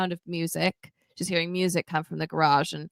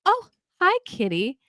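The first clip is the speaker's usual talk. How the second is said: cooing at cat; 10 semitones higher than usual. Retold or imitated. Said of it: "she says".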